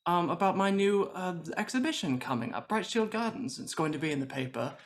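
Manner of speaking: lightly gushing party host; a touch of showy host, pitch swooping; chatty effusive host. Acted. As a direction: prattle on to cover the awkwardness. Host voices character to guest.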